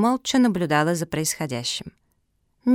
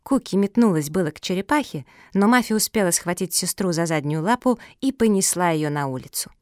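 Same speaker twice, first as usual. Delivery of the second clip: usual speaking voice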